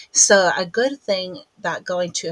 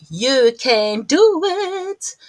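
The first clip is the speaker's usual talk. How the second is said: slow, louder reassurance; encouraging; 7 semitones higher, 7 dB louder, much slower than usual. Real, not acted. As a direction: reassure her slowly and firmly. Encouraging her mum.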